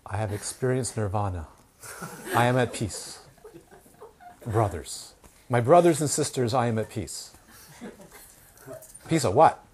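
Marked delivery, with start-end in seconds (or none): 0.1-7.3 measured, solemn mock serenity; mock enlightened master. Practitioner announcing nirvana to brothers and sisters, mock-solemn. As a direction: proclaim it like a self-styled holy man. Acts a self-declared enlightened preacher.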